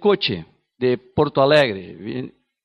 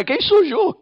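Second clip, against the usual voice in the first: questioning. Shown as a demonstration. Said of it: "Que yo tuve una crisis de identidad".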